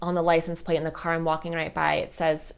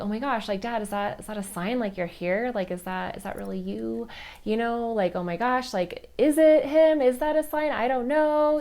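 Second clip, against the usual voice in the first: higher, wondering questions to Dad; retold disbelief; 5 semitones higher than usual. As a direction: reenact being amazed and unsure of a sign. Reacting to a possible sign.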